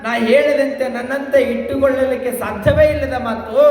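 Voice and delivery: high, declaimed devotee's plea; devoted Nandisha, pleading. Acted. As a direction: plead to the Lord in high, sustained recitation. (ಏರುದನಿಯಲ್ಲಿ ಭಕ್ತನ ಅಳಲು)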